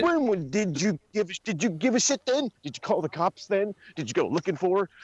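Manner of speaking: high, heated did you give a shit; indignant questioning. Real, not acted. Calling out fake friends, indignant. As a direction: demand answers angrily. Angry about kidnapped friends.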